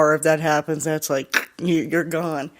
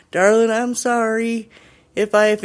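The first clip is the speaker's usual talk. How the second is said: acted apology; 5 semitones higher, 4 dB louder than usual. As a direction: start a mock apology to a ghost. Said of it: "he starts talking to the air".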